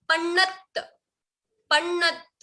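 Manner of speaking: पन्नत stopped on a half t, no vowel after. Shown as a demonstration. Teacher reading for class to notice, careful half-letter demo. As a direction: cut पन्नत off on the त. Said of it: "पूरा त नहीं pronounce करते".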